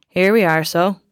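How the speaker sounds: a light Irish Wexford lilt, lightly voiced; the driver announcing arrival in a mild Wexford accent. Taxi driver to passenger on arrival, light Wexford accent. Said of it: "in his strong Wexford accent".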